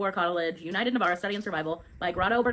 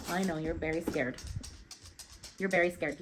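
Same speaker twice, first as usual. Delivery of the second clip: soothing; 6 dB quieter than usual. Real, not acted. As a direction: comfort someone who is scared. Breaks off to soothe someone scared.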